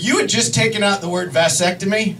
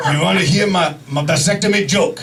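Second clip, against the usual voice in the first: Japanese-accented doctor impression; mock Japanese-accented doctor; imitated Japanese accent; 2 semitones lower than usual. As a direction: put on a thick Japanese accent. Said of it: "this is how he spoke".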